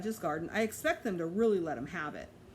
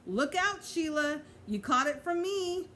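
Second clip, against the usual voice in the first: tag her and gloat; teasing cry; 8 semitones higher than usual. A narrator's reading. Pete tags Sheila, teasing.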